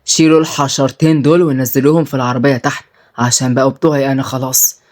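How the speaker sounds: low, controlled order; commanding. Acted. Boss orders men to take the girls, commanding. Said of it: "وهو بيقول بأمر".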